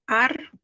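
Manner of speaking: "árbol" split into two beats, AR, then bol; separação silábica. Shown as a demonstration. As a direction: sound out "árbol" syllable by syllable, pausing between. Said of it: "Si el golpe de voz está aquí".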